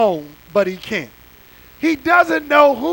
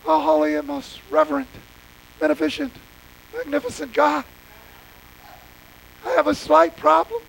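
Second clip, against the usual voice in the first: mock pompous prayer; 3 dB quieter, faster than usual. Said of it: "trancing into".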